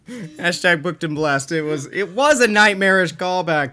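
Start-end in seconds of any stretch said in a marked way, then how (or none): 0.1-1.5 triumphant. Real, not acted. Triumphant announcement.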